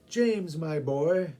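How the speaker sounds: kindly. Acted. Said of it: "regretfully but kindly".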